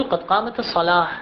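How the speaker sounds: "قامت الصلاة" ending with a silent h sound, "الصلاه"; pausal form demo. Shown as a demonstration. Teacher to students, demonstrating the pausal form calmly. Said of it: "عند الوقف يجب أن نقول".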